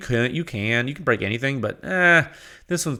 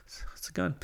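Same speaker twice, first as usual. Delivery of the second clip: mock whisper; 7 semitones higher, 14 dB quieter than usual. Mock discovery under papers.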